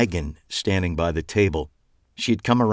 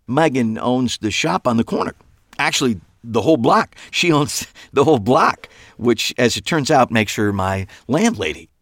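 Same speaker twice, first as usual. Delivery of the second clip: louder, higher rushed chatter; nervous babble; 5 semitones higher, 5 dB louder than usual. A narrator's reading. Eli explains Megan to Trish, babbling nervously. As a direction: fill the awkward silence with nervous chatter.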